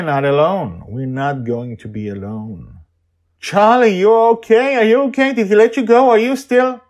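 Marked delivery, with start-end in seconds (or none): 3.4-6.8 put-on high, loud, urgent girl's voice; anxious girl Joy. Joy anxiously checking if Charlie is okay. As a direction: fire the questions at him.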